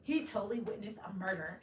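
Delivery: high, loud, drawn-out amazed gush; mock-thrilled suburban gush over a shooting story; valley girl gush. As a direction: gush like a sheltered suburban girl hearing gossip. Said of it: "I'm talking like that".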